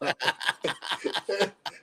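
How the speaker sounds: imitated wrestler's cackle; a string of put-on ha-ha-has; mock laugh. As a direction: mimic someone else's constant laughing. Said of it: "he's laughing like Seth Rollins".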